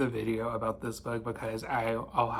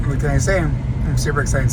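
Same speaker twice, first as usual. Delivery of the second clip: chewing while talking; mouth full; 11 dB louder than usual. Real, not acted. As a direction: talk around a chewy vitamin, mouth full. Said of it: "Sorry, I'm chewing a calcium vitamin".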